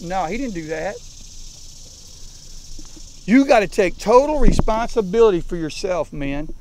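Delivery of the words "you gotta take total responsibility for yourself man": loud insistence. Real, not acted. Coach raising voice to team.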